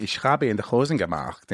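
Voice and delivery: learned German line, imitating the teacher; lightly put-on German pronunciation; German phrase. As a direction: recite it with a German accent. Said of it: "teaching me these words".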